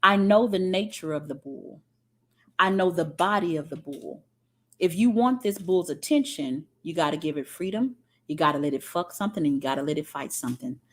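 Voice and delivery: a hint of a sly, knowing farmer. Farmer reasoning about the bull, low and quickening. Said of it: "And the farmer says".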